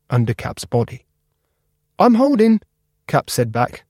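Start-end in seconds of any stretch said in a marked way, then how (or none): 2.0-2.6 high little bottle cap voice, louder; a small eager cap calling up. Acted. High voice of a little cap answering Spark. Cap's voice.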